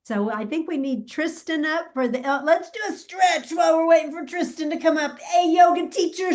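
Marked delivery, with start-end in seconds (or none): 2.3-6.3 calling out. Real, not acted. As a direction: call out across the room to rouse everyone. Calling the yoga teacher up.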